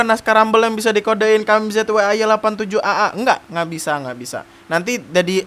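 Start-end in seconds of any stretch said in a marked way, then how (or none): 1.5-4.0 sambil tertawa. Real, not acted.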